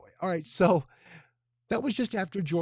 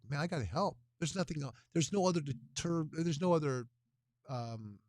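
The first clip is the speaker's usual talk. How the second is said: tired. Real, not acted. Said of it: "Sorry, a little tired".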